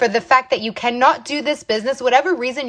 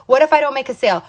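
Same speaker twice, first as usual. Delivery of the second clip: doubting what-if, only slightly raised; mildly acted self-doubt; 2 semitones higher, much faster than usual. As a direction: voice a fence-sitter's worry, mildly. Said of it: "That's the wrong what ifs".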